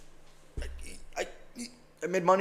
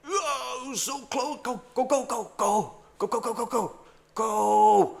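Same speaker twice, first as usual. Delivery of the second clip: high cheering; 4 semitones higher than usual. Real, not acted. Trader cheers price on.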